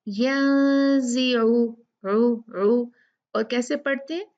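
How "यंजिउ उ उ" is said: यंजिउ then the ain alone; ain isolated. Shown as a demonstration. Teacher isolates the sound for students. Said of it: "ये क्या है?".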